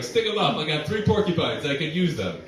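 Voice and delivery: hammed-up stickup voice; mock robber. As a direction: play a silly bank robber. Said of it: "nobody walks into a bank and be like".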